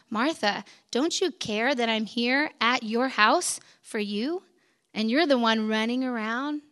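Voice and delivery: understated, tender appeal; gentle reproach. Retold or imitated. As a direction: reason with her gently, leaving room between phrases. Jesus gently questioning busy Martha.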